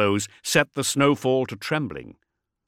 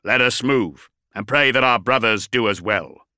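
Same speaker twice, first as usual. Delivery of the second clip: augmetic voice; 4 dB louder than usual. Acted. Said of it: "His augmatized voice".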